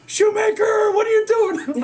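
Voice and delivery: very high, loud shout; high loud coach yell; angry coach yelling. Retold or imitated. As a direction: yell at the kid in the mud. Assistant coach yelling at kid.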